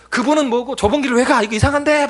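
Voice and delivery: high, loud irritated protest; loud retold grumbling, pitched right up; mock angry outburst. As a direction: imitate drunk friends losing their temper. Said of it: "막 성질 내는 거예요".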